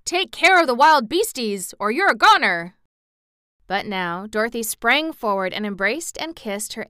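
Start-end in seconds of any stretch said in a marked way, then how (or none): 0.0-2.8 loud, higher rustic warning; an old farmer fearing wild beasts; alarmed old farmer. A narrator's reading. Uncle Henry warning Em about beasts, alarmed farmer.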